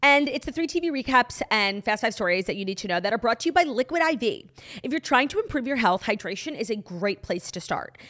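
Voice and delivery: upbeat sponsor read. Acted. Reading the Liquid I V ad to listeners, upbeat. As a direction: sell the product brightly.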